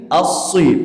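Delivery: "as-si" with a heavy emphatic s; thick sad. Shown as a demonstration. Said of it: "pastikan sad tebal".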